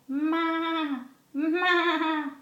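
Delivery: imitated lamb's "maa"; lamb bleat. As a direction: bleat like a little lamb for a child. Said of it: "The lamb says".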